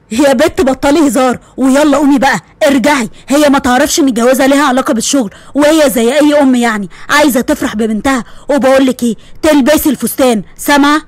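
father ordering daughter to wear the dress; firm father. Acted. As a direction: lay down the law gently. Father voiced lower.

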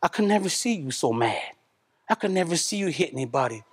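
soft, hushed and tender; tender to son. Retold or imitated. Father speaking softly to his precious son, tender and hushed. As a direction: murmur it like you're looking at your sleeping boy. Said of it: "I'm like".

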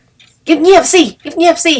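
high, slow little crow hush; the little crow hushing its friend; little crow shushing. Acted. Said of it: "เจ้ากาน้อยก็บอกว่า".

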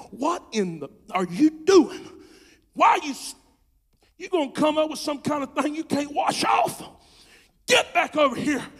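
grab him and yell him home; stern rebuke. Retold or imitated. Preacher scolding a wandering brother, loud and stern. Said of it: "and say".

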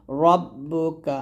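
রব্বুকা with a full, heavy র and slow. Shown as a demonstration. Teacher showing students the correct heavy ra. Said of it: "রটা মোটা করে".

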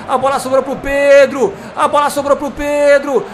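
building from laughing to roaring; explosive goal commentary. Real, not acted. Goal scored, building celebration.

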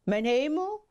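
put-on young frog exclaiming, high-pitched; startled exclamation. A narrator's reading. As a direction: cry out high in astonishment. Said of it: "riep de verliefde kikker". (verbaasde, hoge uitroep)

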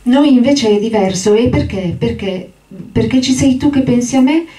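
put-on high, eager childlike giant's voice; childlike Lenny. Lenny begging George for the story, high and eager. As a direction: plead like an overgrown child, voice up high.

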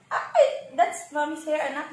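giggling high through the words; laughing. Real, not acted. Baby grabs her hair. (tumatawang sinasaway ang anak na humihila ng buhok)

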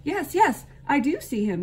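high, loud, quick chatter; chattering squirrel. A narrator's reading. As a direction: squeak it out like an excited squirrel. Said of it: "chattered the squirrel".

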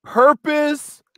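deliberate reading with weighty pauses; slow and intentional. Shown as a demonstration. Reading her tribute to her husband, slow and intentional. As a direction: set each word apart as you read. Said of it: "read it slow and intentional".

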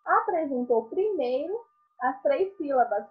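ordinary talk, nothing marked

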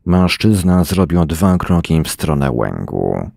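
ordinary delivery

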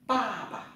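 pa pa said high with a rising second syllable; Chinese tone drill. Shown as a demonstration. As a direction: sing out pa pa high and clear for the class. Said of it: "chúng ta tập lại".

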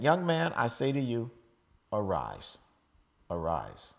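commanding Jesus. Acted. Preacher voicing Jesus raising the widow's son, commanding then hushed. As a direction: call the dead man up, then sink to a hush.

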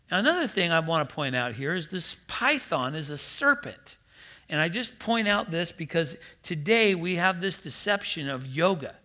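ordinary talk, nothing marked

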